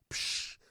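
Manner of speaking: sharp "psh" of a flying plate; imitated throwing noise. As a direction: whoosh it out like something thrown.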